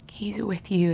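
gentle whisper on he's with you; whispered reassurance. Real, not acted. Comforting the listener, whispered.

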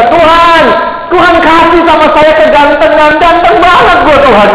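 high, put-on cry of self-admiration to God; mock boastful prayer. Preacher mimics someone vain praying to God, mock boastful. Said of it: "Kita suka bisa".

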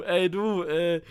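playacted awkward phone confession; sheepish confession. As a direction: break bad news as if it were a trifle. Acts sheepish confession call to instructor.

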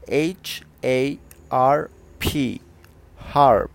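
slow letters, then a loud final word; spelling out. Shown as a demonstration. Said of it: "decimos harp". (deletreado lento, palabra final fuerte)

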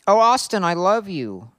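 loud, high lovesick moan; over-the-top passionate cry; hammed-up moan. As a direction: moan it out loudly, swooning in mock passion. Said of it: "he moaned Austin's name out".

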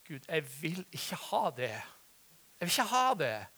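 re-enacted prayer, pressing each word; insistent plea to God. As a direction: plead stubbornly with God, building in force. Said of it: "Men jeg sa til Gud".

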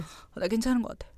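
put-on soft drunken mumble. Shown as a demonstration. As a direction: murmur it like you've had too much. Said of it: "약간 이런 거 뭔지 알죠?". (술 취한 목소리)

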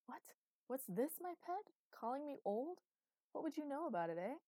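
hammed-up outrage, pitched high; theatrical gasp at being called old; mock wounded. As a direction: play the betrayed old man for laughs. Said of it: "gripped his heart dramatically".

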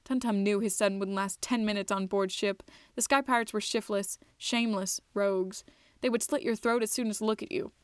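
measured storybook narrator; unhurried audiobook-style telling; story narration. A narrator's reading. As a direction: read it out evenly, phrase by phrase. Reads the story aloud.

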